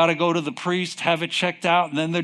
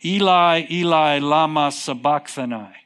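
loud opening cry, easing toward the end; crying out loudly; 3 dB louder than usual. Acted. Preacher acting Jesus on the cross, crying out. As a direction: call it out to God, strongest on the first word. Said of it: "he cried with a mega voice".

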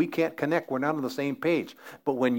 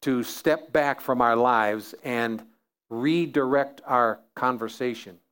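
prayer. Acted. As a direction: pray it out, unhurried and earnest. Closing prayer.

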